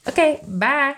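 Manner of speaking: high, sheepish little okay bye; awkward mock goodbye. Host mocking her own awkward ending, high and sheepish. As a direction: play up the awkward exit. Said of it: "I'm like".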